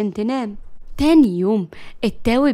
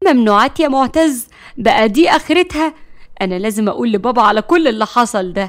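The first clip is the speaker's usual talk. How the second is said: shocked scolding sister; 5 dB louder than usual. Acted. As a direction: threaten to tell dad. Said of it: "ريم قالت".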